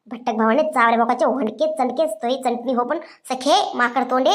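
a hint of a low, scornful aunt hurling names; insulting sister-in-law. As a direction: drag out each insult low.

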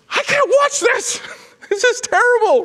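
high, loud, laughing "I can't watch this"; son cringing. Retold or imitated. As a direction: squeal it like you can't bear to look. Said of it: "he goes".

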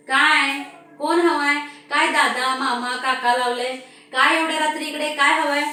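loud, gruff man answering the door. Acted. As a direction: bark at a late-night stranger. (रागावलेल्या पुरुषाचा मोठा आवाज)

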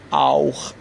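آوخ as "owkh", ending in a throaty خ; au plus kh. Shown as a demonstration. Teacher shows how the last example is read, ch as kh. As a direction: say German "auch" as one vowel glide into kh. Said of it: "خ تلفظ بشه".

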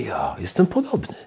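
whispered, almost to himself; hushed admission. Retold or imitated. Quiet admission in retold prayer.

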